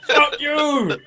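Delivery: high, loud mock yell. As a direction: belt it out in his face. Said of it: "just yelled".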